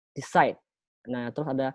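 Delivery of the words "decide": "Decide" stressed on CIDE; light "de", then weight on "cide" in "Decide"; second-syllable stress. Shown as a demonstration. Teacher demonstrating word stress, "Decide" stressed on its second syllable. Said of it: "silabus kedua ya".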